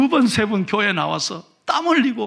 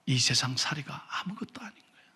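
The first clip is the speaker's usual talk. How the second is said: whisper; 7 semitones lower, 10 dB quieter than usual. Real, not acted. Preacher softens to the congregation.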